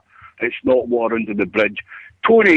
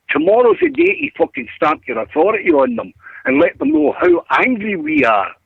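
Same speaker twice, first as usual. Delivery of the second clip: heated rant; 6 semitones higher than usual. Real, not acted. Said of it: "Sorry for that rant".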